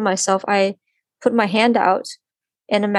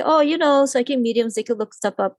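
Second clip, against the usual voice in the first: mocking skeptics; 4 semitones higher than usual. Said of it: "people say".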